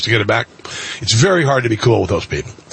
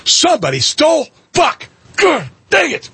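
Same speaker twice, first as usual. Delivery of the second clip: panicked outburst; 13 semitones higher than usual. Retold or imitated. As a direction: yell it in retold panic. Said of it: "And I'm like".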